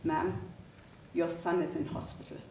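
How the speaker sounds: gently subdued officer; soft-spoken. Retold or imitated. Police officer to a waiting mother, kind and soft-spoken. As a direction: break bad news softly and carefully. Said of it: "soft-spoken".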